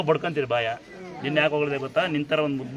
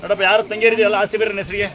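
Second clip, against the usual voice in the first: higher and louder, calling to the men; loud address; 5 semitones higher, 8 dB louder than usual. Real, not acted. Giver calls to brothers about sisters' property, loud. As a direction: call out to them across the room.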